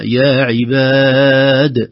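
عباد stopped with no ya, drawn out; pausal reading. Shown as a demonstration. Sheikh demonstrating the pause, slow chant. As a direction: say عباد slowly and stop on the dal. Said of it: "ولو وقفنا".

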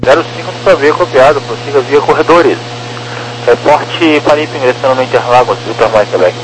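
radio transmission, band-limited; like over a tower radio; air traffic control radio. Real, not acted.

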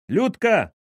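high, urgent cry to his wife; muffled yell. A narrator's reading. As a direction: yell her name excitedly, as if holding it in. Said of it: "приглушённо завопил Кирин отец". (приглушённый вопль)

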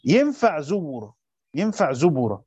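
zubura, b given a damma. Shown as a demonstration. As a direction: round middle vowel of zubura to u. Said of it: "بقراءة الضم". (زُبُرًا بضم الباء)

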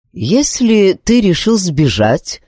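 slow, thoughtful musing. Acted. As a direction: think it over slowly. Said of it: "задумчиво проговорил король-чародей". (задумчиво и медленно)

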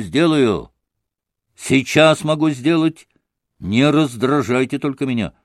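rising hysterical defiance, half shouted; a mild hammed-up frenzy of defiance; hysterical outburst. Grushenka to Alyosha, mildly hysterical defiance. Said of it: "истерически прокричала".

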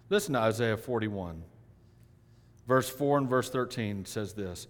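ordinary delivery

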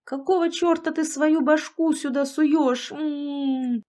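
high, slow howl of outrage; pained yell. A narrator's reading. Climber bumps heads at the hole, yelling in pain. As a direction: wail it out angrily, ending in a moan. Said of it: "услышали двойной вопль".

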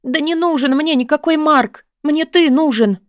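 cling to him with your voice; desperate cry. A narrator's reading. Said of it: "отчаянно воскликнула я". (отчаянный возглас, выше и громче)

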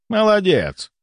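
high-pitched approving exclamation; praising. A narrator's reading. Volkonsky praises the nurse's work, approving. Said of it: "похвалил Волконский".

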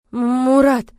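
high, loud, stuttered cry; stammering. A narrator's reading. Heroine stammering his name in shock. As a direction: stumble over his name. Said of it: "Чуть заикаясь".

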